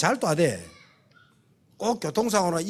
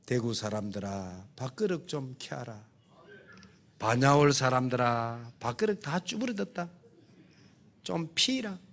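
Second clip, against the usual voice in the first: Gyeongsang dialect; 5 semitones lower, 6 dB quieter than usual. Acted. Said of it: "경상도 말로".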